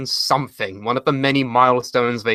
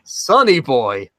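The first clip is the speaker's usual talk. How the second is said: slow, dull deadpan name; slow deadpan mock of the wrestler; deadpan Sonny Boy; much slower than usual. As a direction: drag out the name flatly. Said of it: "and he says".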